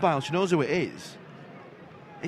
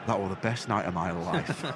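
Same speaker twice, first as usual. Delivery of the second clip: put-on drunk dad; 6 semitones lower, 6 dB quieter than usual.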